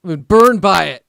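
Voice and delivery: loud, falling mock whine; mock complaint. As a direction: complain loudly in mock self-pity.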